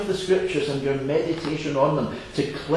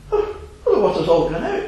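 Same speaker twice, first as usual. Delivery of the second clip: put-on wee girl; 2 semitones higher than usual. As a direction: squeak it like a puzzled little girl. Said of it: "brings it up to the fisherman".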